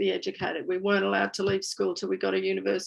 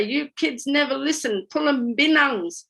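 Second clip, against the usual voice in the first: put-on mum scolding in an Aboriginal accent, pitched up; higher mock scolding in Aboriginal English accent; mum's Aboriginal accent; 6 semitones higher, 3 dB louder than usual. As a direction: imitate mum telling off the kids in Aboriginal accent. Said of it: "she'd do it in the accent".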